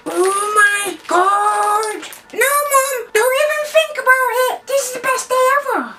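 long-drawn gasp into high, quick gushing; overjoyed little kid squeal; squeaky excitement. Pretend. Child character opening a present, bursting with excitement.

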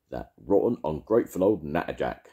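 loud, furious grumbling; angry. Acted. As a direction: spit out the insults. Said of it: "Arthur's angry words".

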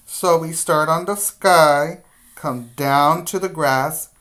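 guiding a class through letter shapes, firmly; step-by-step teacher voice. Shown as a demonstration. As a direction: call each stroke out to young kids. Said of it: "teacher models letter strokes".

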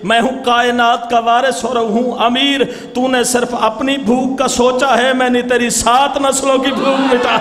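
measured recital of a couplet; majlis recitation. Acted. A preacher reciting a couplet to mourners, measured. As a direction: deliver the verse to the gathering.

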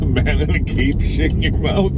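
laughing in disbelief; cracking up while asking. Real, not acted. Laughing at her claim.

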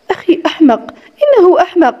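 understated anger at a brother; a touch of annoyance, kept contained; angry. A narrator's reading. Friend defending her about her brother, mildly angry. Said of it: "قالت بغضب".

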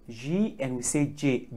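G as "jee", J as "jay"; English G and J. Shown as a demonstration. Teacher contrasting alphabets, English G "jee", J "jay". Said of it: "in English we say".

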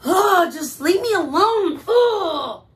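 high, loud exasperated groan; frustrated. Acted. Polar bear wanting to be left alone, frustrated wail. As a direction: moan it out as a fed-up polar bear. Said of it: "I think he is frustrated. He's like".

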